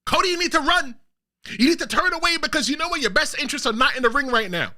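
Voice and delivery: high urgent warning, pitched well up; mock yell at the TV. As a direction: plead with Cody through the screen. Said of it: "I was yelling at the T V".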